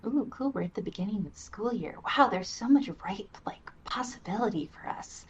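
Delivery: breathless hushed awe, then quick and giddy; mock wide-eyed excitement. Speaker voicing a starry-eyed kid at school start, hushed giddy excitement. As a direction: gush in a hushed wonder like a hopeful kid.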